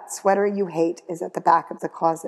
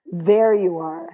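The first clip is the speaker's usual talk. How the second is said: annoyed classmate; 5 dB louder, slower than usual. Acted. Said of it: "says Sabrina Linklater".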